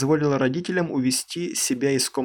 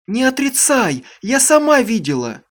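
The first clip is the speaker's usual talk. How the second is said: high piercing accusing shout; shrill cry; 10 semitones higher, 8 dB louder than usual. Acted. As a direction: scream it at her, high and loud. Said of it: "пронзительно крикнула она".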